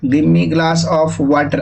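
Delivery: "give me glass of water" said very slowly, word by word; slow dictation. Shown as a demonstration. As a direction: dictate it for notes. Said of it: "लिख लो". (लिखवाते हुए धीमे)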